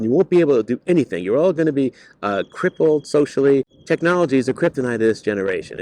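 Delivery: hammed-up preachy rant about kids these days; imitating a disapproving teacher berating students; older teacher scolding. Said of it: "I've heard older teachers say to them".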